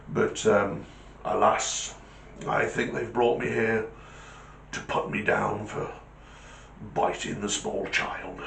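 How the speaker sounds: a touch of downcast soldierly dog; rueful guard dog. Acted. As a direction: admit your fate with mild regret. Alsatian admits his fate.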